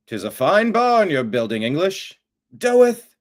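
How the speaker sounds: hammed-up old-fashioned Amish farmer speech, rising at the end; mock Amish accent. Host mocking Amish speech for his chat, Amish accent. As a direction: play a pious Amish farmer in an Amish accent, lightly done. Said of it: "Amish Jewish".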